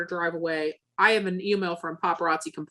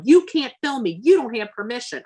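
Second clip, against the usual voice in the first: higher, louder retold protest; raised-voice imitation of a refusal; agitated objection; 4 semitones higher, 5 dB louder than usual. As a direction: object sharply, acting out the official. Acts out purser objecting to filming.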